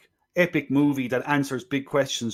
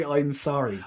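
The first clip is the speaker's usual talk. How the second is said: put-on "I'm sorry" tossed off softer, in a brief Deep South accent parody; quick, quieter jab at the Deep South accent; Deep South accent parody, throwaway; mock Deep South accent; 4 dB quieter, slower than usual. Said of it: "He couldn't say".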